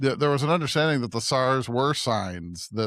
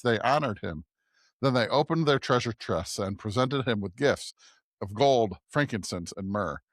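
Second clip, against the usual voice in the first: measured, evenly projected Bible reading; scripture reading. A narrator's reading. Podcast host reads the Magi story to listeners, scripture reading. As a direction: read the passage aloud clearly, phrase by phrase.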